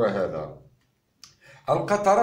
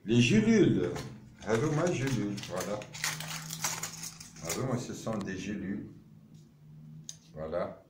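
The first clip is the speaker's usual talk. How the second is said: far off; 5 semitones lower, 9 dB quieter than usual. Real, not acted. Showing samples away from mic.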